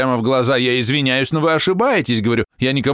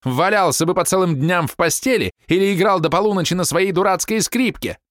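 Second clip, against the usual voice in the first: high, stabbing angry shouts; wife berating her husband before guests; furious wife; 10 semitones higher than usual. A narrator's reading. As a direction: cut him down with every word. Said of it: "голос колол, словно ржавый клинок".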